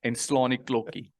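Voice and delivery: Afrikaans accent. Shown as a demonstration. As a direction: say it like an Afrikaans speaker. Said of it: "I'll say it in an Afrikaans accent".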